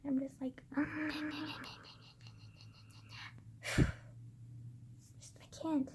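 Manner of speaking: drained, barely voiced whisper; exasperated whisper. Real, not acted. Ranting to camera about her grandma, whispering in exasperation. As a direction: sigh it out under your breath.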